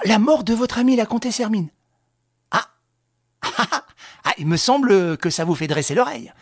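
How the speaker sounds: chatty, ironic and amused; mock interest. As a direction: toy with him like a host. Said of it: "avec beaucoup d'intérêt".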